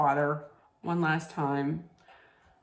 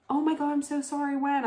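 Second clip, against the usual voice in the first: higher, fast, hushed shock; shocked sympathy; 9 semitones higher, 3 dB quieter, faster than usual. Retold or imitated. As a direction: gasp out sorry as a stunned coworker. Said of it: "she was like".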